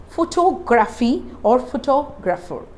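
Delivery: "photography or photographer", TOG stressed in both; careful model "photography or photographer", weight on second syllables. Shown as a demonstration. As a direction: lean on TOG: pho-TOG-raphy, pho-TOG-rapher. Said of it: "This is where I give the stress".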